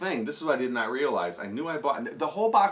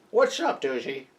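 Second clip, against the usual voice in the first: Rover impression; slower than usual. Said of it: "He talks like this".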